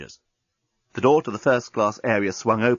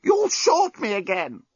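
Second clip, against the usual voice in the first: choked robot voice; 9 semitones higher, slower than usual. Acted. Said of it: "choked the despot".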